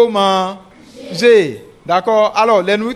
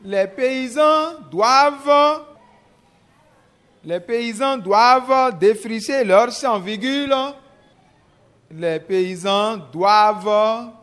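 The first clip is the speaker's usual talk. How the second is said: slow, chunked dictation; dictating; slower than usual. Shown as a demonstration. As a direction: dictate each phrase slowly. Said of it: "je vais lire une première fois".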